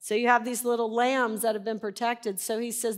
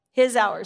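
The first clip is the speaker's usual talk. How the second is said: HIS punched louder, then hour; stress on HIS; 5 dB louder than usual. Shown as a demonstration. Preacher repeating the phrase, stress on His. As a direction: lean hard on the word His. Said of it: "stress different words".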